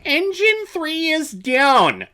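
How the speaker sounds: shouted high and slow; loud shout. Retold or imitated. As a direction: yell it like a crisis. Repeating movie line, loud.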